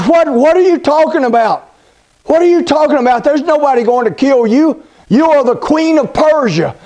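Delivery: lightly voiced king, taken aback; dumbfounded king. King stunned by the queen's plea, mildly surprised. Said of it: "the king is dumbfounded".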